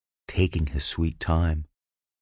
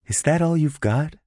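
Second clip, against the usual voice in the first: higher, defiant taunt; 11 semitones higher than usual. A narrator's reading. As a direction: goad him on. She taunts after screaming.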